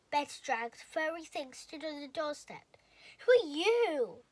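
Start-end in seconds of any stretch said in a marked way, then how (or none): 3.2-4.2 high, loud, slow astonished question; gasp. A narrator's reading. The friends gasping at the monster on the doorstep. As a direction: gasp at the tiny stranger. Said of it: "everyone gasped".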